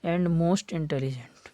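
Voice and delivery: very slow dictation; dictation pace. Shown as a demonstration. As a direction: drag each word out for note-taking. Dictating to the class. (लिखवाते हुए बहुत धीमे)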